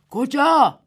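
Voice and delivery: high, loud startled cry; shouting. A narrator's reading. Old Mrs Wang waking up, shouting high and loud. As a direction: yell the question out. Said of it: "فریاد زد".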